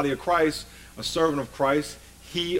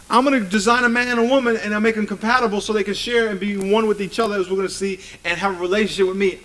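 raised, quickened preacher's voice for the Creator; God's eager declaration; 5 semitones higher, faster than usual. Acted. Preacher as God designing man and woman, driving declaration. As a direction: lay out the plan in a high, driving rush.

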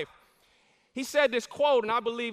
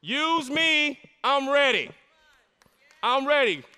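surrendering cry; 4 semitones higher, 4 dB louder than usual. Acted. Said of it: "not turn and say".

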